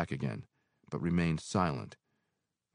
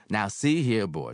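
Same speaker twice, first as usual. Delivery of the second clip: gruffly; 4 semitones higher, 6 dB louder than usual. Acted. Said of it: "she said gruffly".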